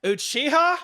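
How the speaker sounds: high, loud angry yell of his name; furious shout. Acted. Soaked girl yelling at the prankster, furious shout. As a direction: scream it from the water, outraged. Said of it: "she shouted".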